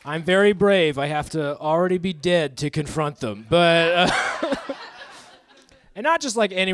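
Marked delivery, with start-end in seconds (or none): 0.1-1.0 mock pride.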